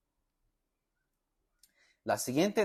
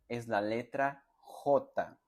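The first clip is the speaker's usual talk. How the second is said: slow announcement; much slower than usual. Shown as a demonstration. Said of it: "La letra J tiene la siguiente pronunciación".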